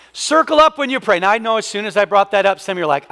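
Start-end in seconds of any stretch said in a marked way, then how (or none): 0.1-1.2 higher, louder, "up" punched; punchy repeat. Shown as a demonstration. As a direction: hit the point again with energy. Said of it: "here's the last one".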